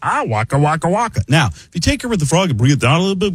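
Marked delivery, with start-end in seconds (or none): 0.0-1.2 cheery Fozzie waka waka; Fozzie Bear. Retold or imitated. Comic showing Muppet voices, Fozzie Bear. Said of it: "And then Fozzie Bear".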